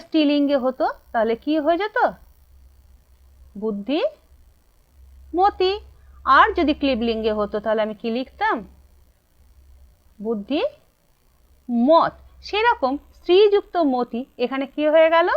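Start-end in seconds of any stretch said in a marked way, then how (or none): 3.6-4.9 বুদ্ধিমতী stretched very slowly and a bit softer; slow, lower teacher answer; drawn-out answer. Shown as a demonstration. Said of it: "teacher stretching the answer". 10.2-12.1 বুদ্ধিমত stretched very slowly, syllable by syllable; very slow teacher dictation; drawn-out answer. Shown as a demonstration. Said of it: "teacher stretching the answer".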